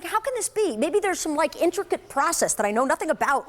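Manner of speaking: high, puzzled inner thoughts; baffled wondering. Retold or imitated. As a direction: wonder aloud, thrown by it. Inner thought reacting to price.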